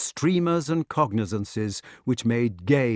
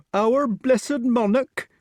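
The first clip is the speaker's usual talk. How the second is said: high, slow wail; tearful; 13 semitones higher, 5 dB louder, much slower than usual. A narrator's reading. Nurse speaks of the late king, tearfully. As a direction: lament it loudly, drawn out. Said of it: "said the nurse tearfully".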